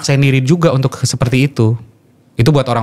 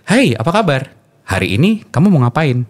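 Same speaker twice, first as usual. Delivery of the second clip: slower, more spaced host greeting; slower speed; 5 semitones higher than usual. Shown as a demonstration. Radio host demoing a slower speed rate, unhurried. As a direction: ease off and let each word land. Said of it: "Dengan speed yang lebih dipelankan".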